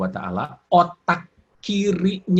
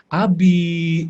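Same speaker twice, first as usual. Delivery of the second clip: drawn-out higher, louder call to husband; wife calling; 3 semitones higher, 6 dB louder than usual. Acted. Wife calling husband over for coffee, calling out. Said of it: "Terus bilang".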